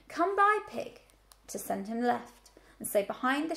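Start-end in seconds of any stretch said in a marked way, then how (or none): 0.1-1.0 high, loud herding call; farmer's command. A narrator's reading. Farmer sends the pig left, loud command. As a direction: call the order out, dropping at the end. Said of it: "the command".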